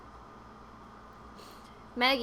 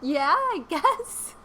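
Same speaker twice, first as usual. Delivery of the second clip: client's unimpressed reply; 5 semitones higher, 6 dB louder, much slower than usual. Retold or imitated. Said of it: "And she was like".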